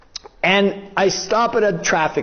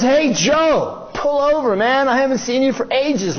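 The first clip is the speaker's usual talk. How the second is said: higher-pitched, eager buddy call; friendly hail; 4 semitones higher than usual. Retold or imitated. Old friend wants him to pull over and talk, friendly hail. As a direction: imitate a pal calling you over.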